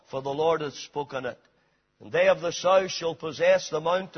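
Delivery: measured, weighty Bible reading to the congregation; solemn scripture reading. Acted. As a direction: read the prophecy with gravity. Preacher reads scripture aloud.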